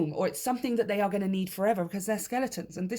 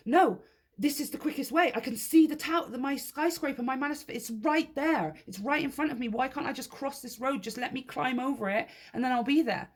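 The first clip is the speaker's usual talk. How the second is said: higher, mock-worried inner voice; fretting; 6 semitones higher than usual. Driver stuck at a diversion, mock fretting and higher. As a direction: play the anxious driver pleading at the roadblock. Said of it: "Now, you're fretting".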